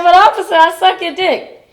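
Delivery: pitched-way-up comic wheedling; mock pleading. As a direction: beg the officer in a hammed-up high voice. Retold pleading with the cop.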